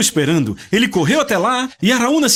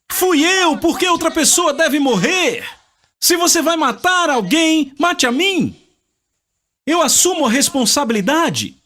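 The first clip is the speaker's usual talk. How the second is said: earnest plea; 9 semitones higher than usual. Acted. David offering himself instead.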